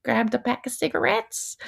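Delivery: light imitation of a Midwestern Wisconsin accent; lightly put-on Wisconsin accent, casual and chatty. Quoting the TV mom Sherry to her co-host in a mild Wisconsin accent. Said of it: "her accent is, like, so on point".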